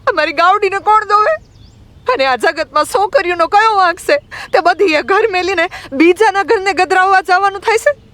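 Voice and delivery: put-on very high, protesting girl's voice; acted outraged young girl pleading her case; indignant retort. A narrator's reading. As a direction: fire back aggrieved questions in a high pitch. Girl angrily answers back the elder.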